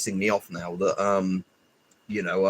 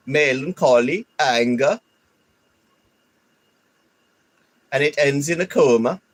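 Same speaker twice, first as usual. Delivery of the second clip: put-on Swedish accent; 5 semitones higher than usual. Streamer reading the short's narration in a Swedish accent. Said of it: "when I was doing the Swedish".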